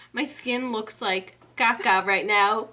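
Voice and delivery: laughing through the words. Real, not acted. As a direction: giggle it out, slowly. Laughing at her own makeup.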